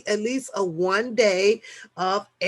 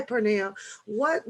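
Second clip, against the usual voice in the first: normal talking voice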